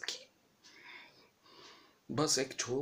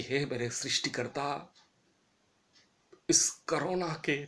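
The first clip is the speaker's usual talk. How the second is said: prayer. Real, not acted. Prayer to God.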